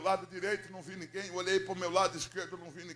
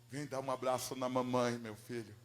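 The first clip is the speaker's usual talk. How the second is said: tender invitation; 6 semitones lower than usual. Retold or imitated. Mother asking her returned son for a hug, tender. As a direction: say it gently, low and falling away.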